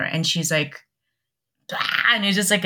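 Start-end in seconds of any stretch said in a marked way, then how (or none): 1.7-2.1 imitated burst of emotion, wordless; mock emotional outburst. Mom reacting to the news, imitated emotional outburst. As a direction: let out a mock exploding cry. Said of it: "an explosion of, like, emotions".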